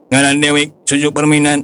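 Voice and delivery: put-on an old man faking a robot voice; stiff, even robot voice; toy robot voice. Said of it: "niru-niru sora robot".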